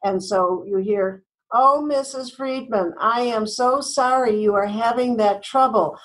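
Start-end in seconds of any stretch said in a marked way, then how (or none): 1.5-6.0 scripted fake sympathy. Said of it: "having scripts".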